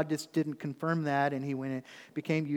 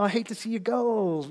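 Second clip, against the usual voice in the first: 1 bittersweet; 7 semitones higher, 4 dB louder than usual. Retold or imitated. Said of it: "it was kind of a".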